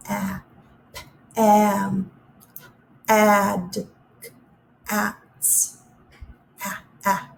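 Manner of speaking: ah, Pam, ad, ats — words cut down to their ah vowel; isolating the ah. Shown as a demonstration. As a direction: strip each word to its middle ah. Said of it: "in the middle".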